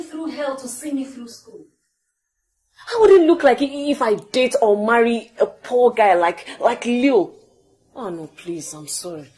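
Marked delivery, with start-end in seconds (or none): 2.9-7.3 raised voice. Acted. Defending herself in an argument.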